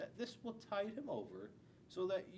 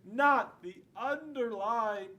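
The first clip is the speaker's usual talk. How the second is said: mock dread; 3 semitones higher, 8 dB louder, slower than usual. Dreading the teacher's underline.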